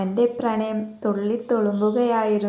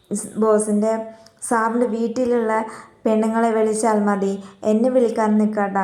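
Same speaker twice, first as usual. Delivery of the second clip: a mildly raised, firm warning; angry warning. Retold or imitated. Employee warning her boss she will quit, in a mildly angry tone. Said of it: "അവൾ ദേഷ്യത്തോടെ".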